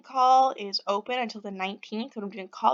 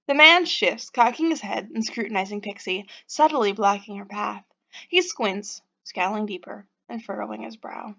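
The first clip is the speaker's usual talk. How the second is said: story narration. A narrator's reading. Reads the game's narration aloud.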